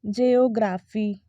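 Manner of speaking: "जियोग्राफी" as jay-o-GRAA-fee; slow, long "graa" in "जियोग्राफी"; drawn-out "जियोग्राफी" starting "jay"; wrong pronunciation. Shown as a demonstration. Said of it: "बहुत लोग ना इसे कहते हैं".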